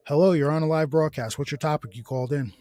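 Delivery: mock radio host. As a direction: play the DJ taking a live call.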